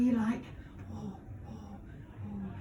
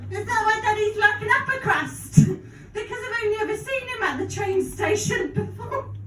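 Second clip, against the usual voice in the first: put-on child voice; 6 semitones higher than usual. Child voice in Peppa Pig bit.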